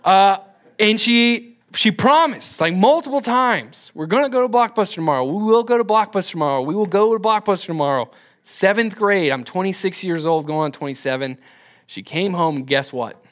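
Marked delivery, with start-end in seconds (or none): 3.9-8.1 quick, higher-pitched repeated promise; brisk retold parental assurance; promising mom. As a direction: lightly imitate a mom insisting. Imitates mom promising multiple times.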